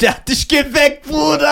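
surprised. Real, not acted. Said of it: "disbelief at friend's story".

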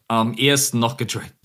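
choking on a drink mid-question; swallowed wrong. Real, not acted. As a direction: speak through a swallow gone wrong. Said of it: "Sorry, verschluckt".

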